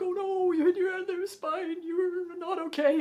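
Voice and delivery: high, loud fretting mother; worried mom. Retold or imitated. Mom fusses over the fall, high and alarmed. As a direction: fuss like a frantic mom. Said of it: "It was like".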